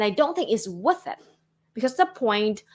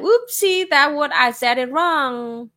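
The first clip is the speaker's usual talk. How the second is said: higher-pitched light "whoopsie" to oneself; mock dismay; 4 semitones higher, 5 dB louder, slower than usual. Streamer catching own mistake while editing videos, mock dismay. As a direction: catch your own slip, pitched up and louder. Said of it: "oh, like".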